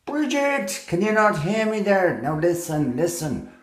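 high distant call, ghostly; calling from far away. Acted. Ghost calling Bridget again.

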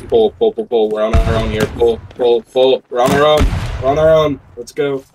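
rising urgent team rally shout. Real, not acted. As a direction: yell at the team to fall back. Rallying team to pull back.

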